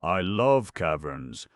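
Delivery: slow, loud gushing; gnome delight. Acted. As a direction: savour the word love.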